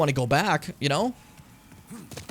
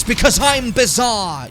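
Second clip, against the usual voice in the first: slow, louder gruff wrestler growl; British Bulldog voice; 5 semitones higher, 7 dB louder, slower than usual. Retold or imitated. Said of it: "British Bulldog voice".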